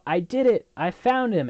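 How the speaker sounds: mild mock yell, pitched high; high, half-hearted victory cry; retold drunken yell. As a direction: imitate a triumphant drunk yelling, lightly. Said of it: "Crow comes in yelling".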